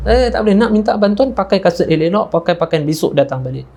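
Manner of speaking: high protest settling into an order; dismissive refusal. Retold or imitated. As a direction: imitate an official turning someone away. Governor refuses and sends her away.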